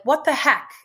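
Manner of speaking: put-on mildly forceful kid's exclamation. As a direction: push it out with a touch of attitude. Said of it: "like, in a forceful way".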